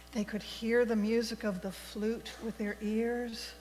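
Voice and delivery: gentle read-aloud story voice for the congregation; storytelling for all ages. Acted. Minister reads a fable to the congregation, gentle storytelling. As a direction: tell it like a children's story at the front of church.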